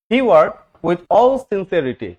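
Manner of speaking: very slow, every English word spelled out for the class; slow dictation reading. Shown as a demonstration. Teacher reading the example sentence to students, slowly and deliberately.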